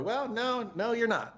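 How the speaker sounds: lightly voiced stern no, rising high then dropping; a hint of a firm scolding friend; Ken Herron impression. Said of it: "that's my Ken Herron impression".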